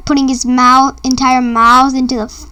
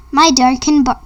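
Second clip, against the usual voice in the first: plain reading voice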